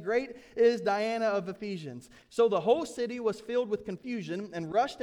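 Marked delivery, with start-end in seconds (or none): 0.0-2.1 crowd's cry. A narrator's reading. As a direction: chant it like the angry crowd. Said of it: "cried out".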